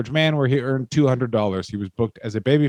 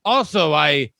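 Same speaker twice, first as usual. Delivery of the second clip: higher, dopey earnest brute; mock Vachon voice; 4 semitones higher than usual. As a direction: proudly explain the broken sofa like a lunk.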